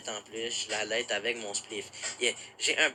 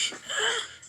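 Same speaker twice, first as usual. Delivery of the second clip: short breathy laugh. Real, not acted. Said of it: "Non, je rigole".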